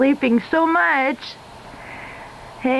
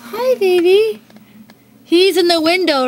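higher, cooing; 6 semitones higher, 4 dB louder than usual. Real, not acted. Owner greeting her cat in the window, cooing. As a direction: coo at the cat.

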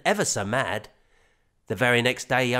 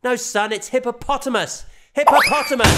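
lightly raised, corrective dad voice; patient father; 10 semitones higher, 7 dB louder than usual. A narrator's reading. Father correcting son's word, light patient dad voice. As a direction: correct him gently like a dad.

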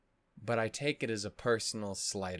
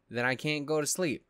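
higher and louder, exasperated; 5 semitones higher, 6 dB louder than usual. Real, not acted. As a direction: push it up in frustration. Frustrated rant, then repeated.

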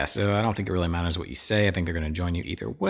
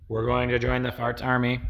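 silly robot voice; 5 semitones higher than usual. Retold or imitated. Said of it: "Surely that's what he sounds like".

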